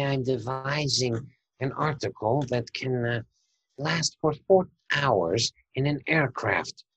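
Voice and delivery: a lightly voiced, unhurried plotter explaining his bomb; Emil character voice. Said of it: "in my character, Emil".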